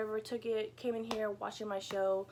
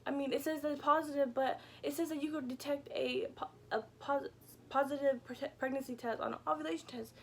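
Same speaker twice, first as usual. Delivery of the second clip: high-pitched rushed explanation; breathless high retelling; excited; 6 semitones higher than usual. Retold or imitated. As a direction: tumble out the news, still high. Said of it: "I was like".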